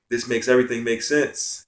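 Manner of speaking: as if everything just clicked; awed realization. Retold or imitated. Awakening moment in the dream.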